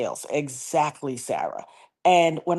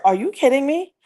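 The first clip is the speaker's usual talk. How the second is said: high-pitched retold disbelief; acted-out astonished question, pitched up; incredulous; 7 semitones higher, 3 dB louder than usual. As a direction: re-enact being amazed by news. Retelling her disbelief at the news.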